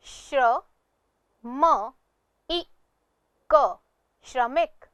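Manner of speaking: "श्र, म, इ, क" spaced apart, then "श्रमिक"; sounding out. Shown as a demonstration. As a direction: sound out "श्रमिक" slowly piece by piece, then blend. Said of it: "इसका उच्चारण करते हैं". ("श्रमिक" का अक्षर-अक्षर, फिर पूरा उच्चारण)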